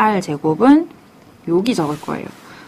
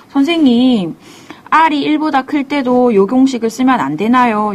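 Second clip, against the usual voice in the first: higher-pitched student putting a question to the teacher; imagined student asking; 4 semitones higher than usual. Acted. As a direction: lightly act out a pupil's query.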